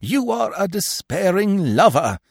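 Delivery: high, impassioned scolding; exasperated director's rebuke; contemptuous. A narrator's reading. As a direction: lecture the bad actor with scorn, rising in pitch. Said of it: "he bade him contemptuously".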